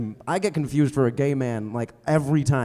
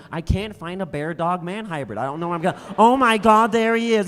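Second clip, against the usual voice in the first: high, searching, then a loud excited discovery; a director desperate, then thrilled to find his man; high frantic search building to a loud shout; frantic George Lucas; 6 semitones higher, 3 dB louder than usual. Retold or imitated. George Lucas voiced in bit.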